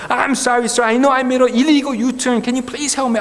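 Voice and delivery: slow, careful broken English said again; repeating the plea. Retold or imitated. Driver repeating his plea to the second policeman, slow English. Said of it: "똑같은 말을 반복할 수밖에 없죠".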